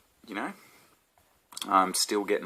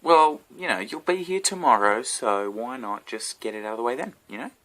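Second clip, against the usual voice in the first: retold reply; 4 semitones higher than usual. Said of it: "So I pipe up with".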